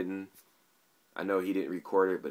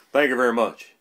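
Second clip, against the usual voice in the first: higher, louder singer catchphrase impersonation; a famous rock-and-roll singer; 4 semitones higher, 11 dB louder than usual. Acted. Vlogger interrupts himself for viewers, loud impersonation of the singer. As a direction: belt out the idol's famous thanks. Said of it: that it's his impersonation of the singer.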